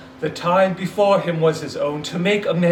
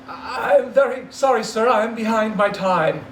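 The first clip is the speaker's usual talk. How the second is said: nervous apology; 5 semitones higher than usual. Acted. Bob apologizing.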